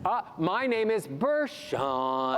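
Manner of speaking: slow, rising happy intro; rising melody. Shown as a demonstration. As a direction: lift the tune up, slowly. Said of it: "Ascending melodies".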